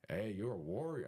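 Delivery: tentative Mexican-accent imitation; attempted Mexican accent. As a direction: lightly try a Mexican roommate's accent. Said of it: "my accent, dude, I'm not really good at accent".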